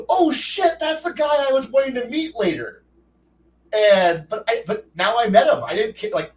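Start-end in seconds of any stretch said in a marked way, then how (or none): 0.1-2.8 shocked realization. Retold or imitated. Finds his name in guide.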